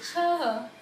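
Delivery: slow model reading with pauses. Shown as a demonstration. Teacher reads the practice sentence, slowly. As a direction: draw out the words one by one. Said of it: "पर धीरे धीरे जैसे जैसे मैंने अभी बताया".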